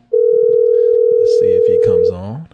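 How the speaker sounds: slow, stretched announcer call of the name; drawn-out call. Acted. Host calling a listener onto the line, drawn-out. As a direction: draw the name out like paging someone.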